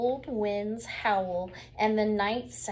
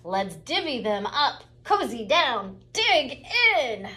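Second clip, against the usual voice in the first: badger voice; 3 semitones higher, 5 dB louder than usual. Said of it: "badger says with a grin".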